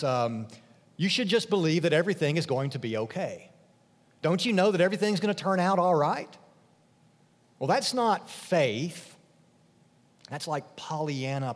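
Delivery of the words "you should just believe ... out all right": quick, airy, a touch higher; lightly mock glib positivity; breezy mock reassurance. Preacher mimicking the world's empty cheer, quick and airy. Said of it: "The world talks like this".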